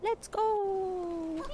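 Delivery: rally yourself to start the trek; eager. Real, not acted. Player setting off across the island, eager.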